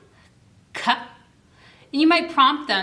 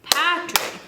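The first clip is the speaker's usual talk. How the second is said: sing-song demo; 7 semitones higher than usual. Shown as a demonstration. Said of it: "That's two syllables".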